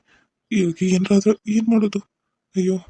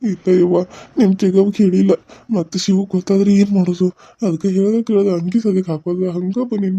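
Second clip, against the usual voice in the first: louder, anxious protest; distressed outburst; 3 dB louder than usual. Acted. Grandmother answering the daughter-in-law in distress. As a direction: blurt it out in distress.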